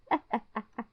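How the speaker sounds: a quick amused laugh; short laugh. Real, not acted. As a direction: laugh at the awkward moment. Narrator laughs at awkward greeting.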